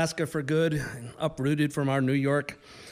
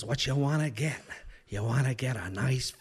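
Don Sheldon; 4 semitones lower, 4 dB quieter than usual. Retold or imitated. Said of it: "the way he talked in this exaggerated Midwestern accent".

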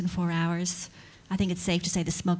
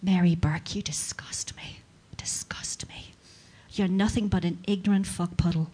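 hushed mock fury, part whispered; imitated seething anger; 2 semitones lower, 3 dB quieter than usual. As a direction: read the angry comment with quiet venom. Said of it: "she's really, really angry".

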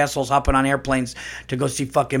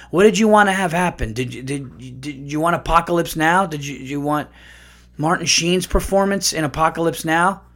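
angry; 4 semitones higher than usual. Real, not acted. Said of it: "I'm angry".

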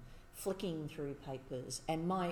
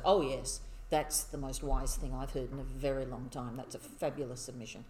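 smug admiring. Retold or imitated. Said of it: "you sit there smugly nodding".

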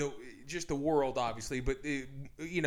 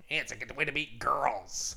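radio guy voice; 2 semitones lower than usual. Acted. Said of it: "no more radio voice".

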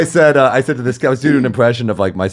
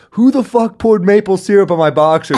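high, louder confused outburst; mock outraged yell; 10 semitones higher, 4 dB louder than usual. Camper at summer camp yelling at cabinmates, mock outrage. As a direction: blurt it out like you just woke up sticky.

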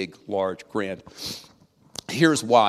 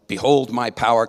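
mock melodrama; 7 dB louder than usual. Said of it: "no melodrama".

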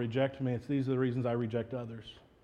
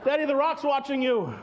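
whisper-warn daddy the rock watches; little son's voice; 12 semitones higher than usual. Retold or imitated. Child voice quoted.

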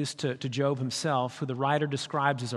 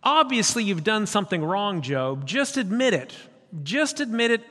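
louder, higher scolding friend; accusing friend; 5 semitones higher, 4 dB louder than usual. Acted. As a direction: press Job to confess.

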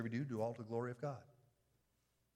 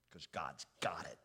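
whisper; 5 semitones lower than usual. Acted. Tender reassurance about suffering.

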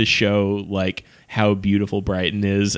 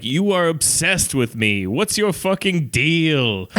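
mock exasperated rival; 6 semitones higher, slower than usual. Voicing rival manager.

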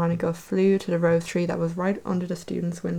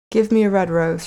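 pleading call; 5 dB louder than usual. Acted. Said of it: "she cried".

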